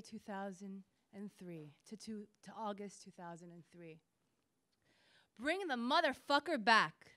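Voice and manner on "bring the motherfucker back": louder and higher, understated shout; shouted order. A narrator's reading. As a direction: read as a raised, forceful order.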